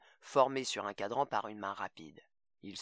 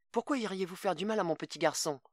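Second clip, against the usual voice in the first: higher, frightened plea; voice suddenly changed; 7 semitones higher than usual. A narrator's reading. Mother begs Greg about her little boy, frightened. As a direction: her voice breaks into fear. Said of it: "la voix soudain changée".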